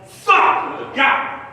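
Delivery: high startled outburst; mock fright at the drive-through box; startled cursing. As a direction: jump and curse in shock.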